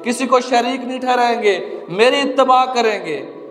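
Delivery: earnest sermon delivery in measured phrases; preaching. Real, not acted. Preacher warning believers they will answer to Allah, earnest preaching. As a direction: preach it phrase by phrase, pausing between points.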